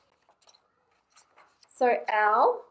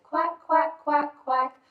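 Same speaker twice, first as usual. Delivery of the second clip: high, louder quacks; mother duck quacking; 5 semitones higher, 5 dB louder than usual. Acted. Mother duck calling her ducklings, high quacking. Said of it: "Mother duck said".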